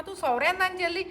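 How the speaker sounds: high, playful teasing ask; teasing question. Retold or imitated. Teasing the crying Rekha, high playful question.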